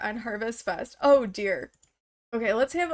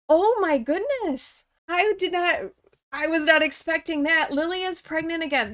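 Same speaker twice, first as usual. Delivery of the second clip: delighted surprise; 3 semitones higher than usual. Real, not acted. Pregnancy news.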